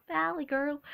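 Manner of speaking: a hint of valley girl; lightly put-on valley girl accent. Shown as a demonstration. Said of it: "Sometimes I have a valley girl".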